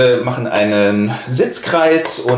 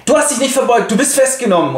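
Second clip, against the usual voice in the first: bailiff voice; 9 semitones higher than usual. Acted. Retelling Tell play with voices.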